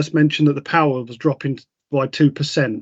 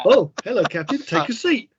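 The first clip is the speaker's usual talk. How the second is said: mock seductive hologram; 6 semitones higher, 3 dB quieter than usual. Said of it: "mock hologram greeting".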